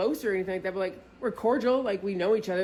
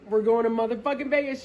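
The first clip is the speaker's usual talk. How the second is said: excited laughing; 4 semitones higher, 5 dB louder than usual. Retold or imitated. Announcing trip to friend.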